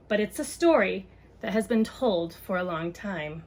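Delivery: gentle picture-book read-aloud; reading to children. Acted. Mom reads a book on race to viewers, storytime voice.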